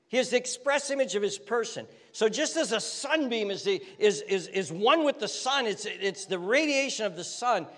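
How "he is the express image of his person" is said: faster repeat of the phrase; quicker repeat. Shown as a demonstration. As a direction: run through it briskly the second time.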